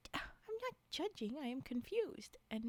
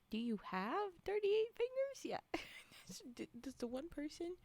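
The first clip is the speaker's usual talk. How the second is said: whispering; 3 semitones higher than usual. Real, not acted. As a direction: ask it in a whisper. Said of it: "Can hear your soothing voice".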